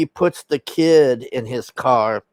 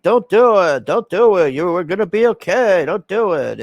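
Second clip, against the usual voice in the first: higher mock plea, falling on each phrase; retold urging, lifted above usual talk; pleading mock quote; 5 semitones higher than usual. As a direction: imitate someone urging a friend to stop. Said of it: "So Vin Diesel's like".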